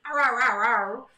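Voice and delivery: mock yelping ow ow; little puppy yelps, lightly played; imitating dog barks. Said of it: "barking at us".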